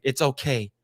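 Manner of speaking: low, soothing comforter; mock reassurance. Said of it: "she's like".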